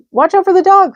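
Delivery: high, loud sheep call; crying sheep. A narrator's reading. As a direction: sheep shouting advice. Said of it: "cried the sheep".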